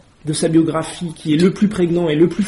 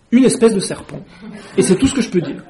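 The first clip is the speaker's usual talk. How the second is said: laughing; 3 semitones higher than usual. Acted. Pigeon concludes, laughing.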